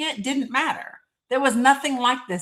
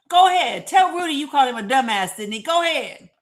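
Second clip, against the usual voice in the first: mock screaming; 3 semitones higher, 4 dB louder than usual. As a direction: bark it like stirring up a fight. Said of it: "I started screaming at Sydney".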